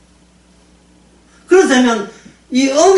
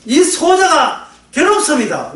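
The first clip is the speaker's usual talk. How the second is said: slow hammed-up lament raised high; mock anguished cry; 6 semitones higher, slower than usual. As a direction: call out to God in hammed-up anguish. Acted anguished prayer.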